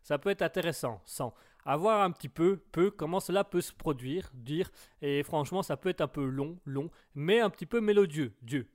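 phrase endings parroted like a verbal tic; verbal tic demonstration. Shown as a demonstration. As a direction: echo the last syllable after each phrase. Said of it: "il y a des tics verbaux". (tic verbal, fins de phrases répétées)

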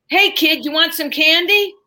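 a hint of a leering man offering candy; stranger in car. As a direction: kidnapper luring a child, mildly voiced. Creepy stranger voiced in story.

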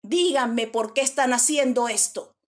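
loud scolding demand; angry mother. Acted. Woman questioning prisoners like a mother with her children, angry scolding. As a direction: tell them off like a cross mother. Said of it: "Así como cuando una mamá está brava".

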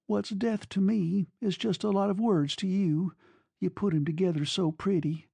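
put-on high-pitched, reproachful girl; hurt young woman. A narrator's reading. Girl reproaching her glib lover, high and hurt.

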